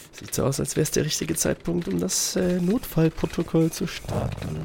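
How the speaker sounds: cornered thief plotting quietly; sneaky aside. Acted. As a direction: say it under your breath to yourself. Thief plots escape aside.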